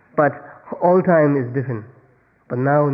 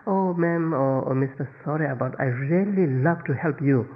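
feigned regret; 2 semitones higher than usual. Pretend. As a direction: apologize with overdone, put-on sincerity. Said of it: "and you pretend".

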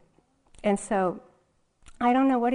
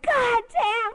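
higher, louder mock curse; imitating a furious curse; 5 dB louder than usual. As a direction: swear like the enraged father. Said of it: "And he's like".

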